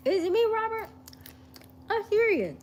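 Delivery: high giggly laughing question. Real, not acted. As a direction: laugh through the words. Laughing at Robert's reply.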